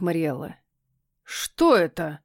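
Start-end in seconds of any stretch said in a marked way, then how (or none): 1.2-2.2 stern. Acted. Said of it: "строго спросил кот".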